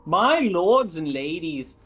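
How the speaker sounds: put-on lords and ladies in a light Minnesotan accent; attempted Minnesotan butler accent. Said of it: "supposed to be talking with a Minnesotan accent".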